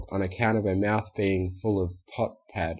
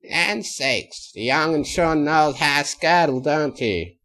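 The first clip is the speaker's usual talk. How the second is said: lightly voiced old country granny; chuckling elderly farm grandma; 6 semitones higher, 3 dB louder, slower than usual. A narrator's reading. Granny Smith's voice.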